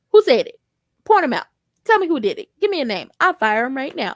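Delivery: loud, demanding who said it; mock angry boss ready to fire someone; protective outburst. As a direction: bark out demands for a name. Robin furious protective.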